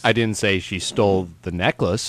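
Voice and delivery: "necklace" set apart with a rise; stress on NECKLACE. Shown as a demonstration. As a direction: end on a questioning "necklace". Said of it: "all the different meanings it could have".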